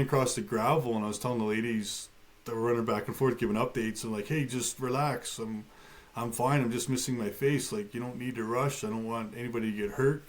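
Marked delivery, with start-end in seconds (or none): 4.3-10.3 calm reassurance. Retold or imitated. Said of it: "I wanted to try to keep the mood calm".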